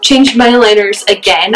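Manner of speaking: talking with a lisp; slight lisp from aligners. Real, not acted. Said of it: "I am so sorry about my lisp".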